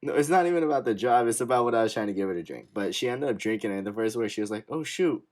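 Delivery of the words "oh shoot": put-on mom's Japanese accent; light Japanese accent on oh shoot. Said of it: "in her Japanese accent".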